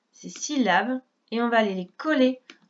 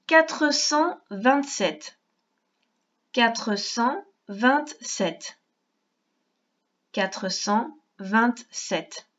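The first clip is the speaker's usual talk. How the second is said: quatre cent vingt-sept drawn out very slowly, three times; very slow dictation; much slower than usual. Shown as a demonstration. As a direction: dictate each syllable for a young writer. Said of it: "On écrit".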